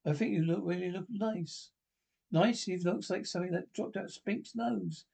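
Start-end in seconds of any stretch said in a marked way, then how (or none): 2.3-2.6 higher, louder disbelieving echo; incredulous. Acted. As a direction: throw the compliment back in disbelief. Scene: reply to a compliment on looks.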